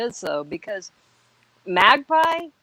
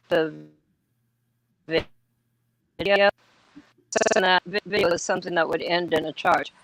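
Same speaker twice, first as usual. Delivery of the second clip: choppy broken-up connection; radio breaking up. Real, not acted. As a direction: voice cutting in and out. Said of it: "You're breaking up".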